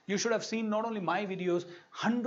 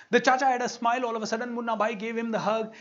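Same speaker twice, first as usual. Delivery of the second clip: higher, louder and fast; excited emphasis; 5 semitones higher, 5 dB louder, faster than usual. Shown as a demonstration. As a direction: burst out with delight at the change. Repeats line for emphasis.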